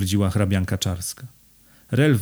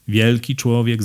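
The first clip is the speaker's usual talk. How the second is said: WIELKI given weight, pitch falling; emphatic. A narrator's reading. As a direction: lean on the word WIELKI. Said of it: "zaakcentował wojewoda". (z naciskiem na WIELKI)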